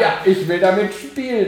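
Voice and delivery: laughing, mock eager gamer. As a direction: play the eager gamer, giggling. Spielt Gamer nach. (lachend, verspielt)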